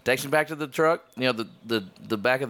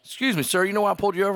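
lightly voiced trooper, pitched higher; a hint of an officer at the window; state trooper; 6 semitones higher, much faster than usual. Trooper to the driver he pulled over, lightly imitated. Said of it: "the guy's like".

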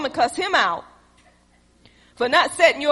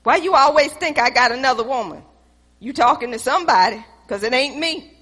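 louder heated accusation; heated quarrel; 5 dB louder than usual. Acted. Husband and wife arguing about other women, louder. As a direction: push back hard.

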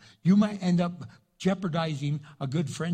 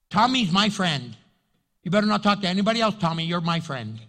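jealous friend; 5 dB louder than usual. Retold or imitated.

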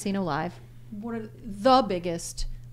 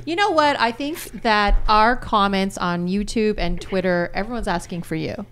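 put-on light Polish accent on English; 2 semitones higher, 4 dB louder than usual. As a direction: speak English with a hint of Polish. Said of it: "Is that your Russian accent?".

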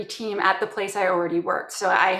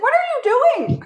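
mock boss, pitched way up and louder in disbelief; a baffled boss shrieking his question; incredulous squeal; 7 dB louder than usual. Manager baffled by her retesting fixes, shrill disbelief.

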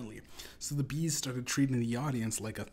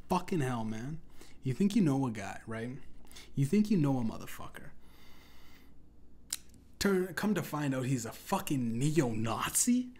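outraged rant; 2 semitones higher, 3 dB louder than usual. Retold or imitated. Outraged exclamation at friend.

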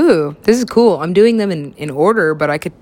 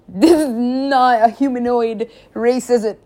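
slow, higher-pitched dawning dismay; mock dismay; 5 semitones higher, slower than usual. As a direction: drag it out as if horrified by the realisation. Acted dismayed question to aliens.

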